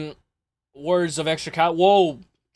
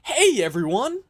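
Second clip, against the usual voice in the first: higher, slower sing-song hello; mock cheery greeting; 7 semitones higher, slower than usual. Streamer mimicking the fighter's cheery video hello. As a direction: lightly stretch out a chirpy hello. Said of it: "Look at how happy he is".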